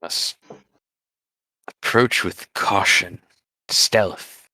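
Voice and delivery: hushed wildlife narrator voice; nature documentary. Acted. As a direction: whisper like a nature documentary host. Narrating shusher in its habitat.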